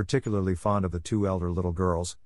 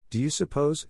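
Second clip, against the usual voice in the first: slow, drawn-out, higher-pitched question; slowly; 7 semitones higher than usual. A narrator's reading. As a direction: ask it slowly, lost in thought. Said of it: "he said slowly".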